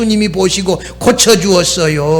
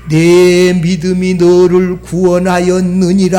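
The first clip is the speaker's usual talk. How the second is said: preacher voicing Jesus with gravity; solemn pronouncement; 2 semitones lower than usual. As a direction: intone it evenly, holding the last syllable. Jesus's words voiced solemnly.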